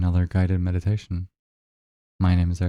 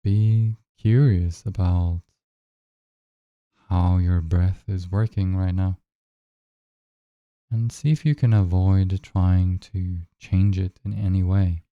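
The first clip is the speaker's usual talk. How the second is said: unhurried guide with long silences between phrases; measured meditation voice, leaving room to breathe; guided meditation. Acted. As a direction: lead them gently into noticing the breath.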